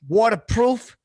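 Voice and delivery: "Waterproof" with a clear r: wa-ter-PROOF; a deliberate reset before the retake; careful retake. Shown as a demonstration. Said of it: "All right".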